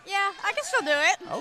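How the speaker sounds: talking around a hard candy; words round a candy in the mouth; sucking a hard candy. Real, not acted. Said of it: "you got candy in your mouth".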